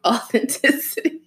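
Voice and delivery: Authenticity said slowly through laughter; laughing pronunciation. Real, not acted. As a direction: giggle through Authenticity, rising. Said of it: "you got it too now".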